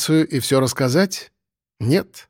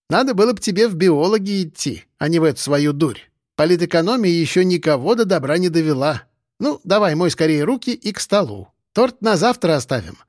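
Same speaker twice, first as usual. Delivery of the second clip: a hint of a higher old lady's voice; mildly raised grandmotherly voice; lightly voiced grandmother, fond chiding; 3 semitones higher than usual.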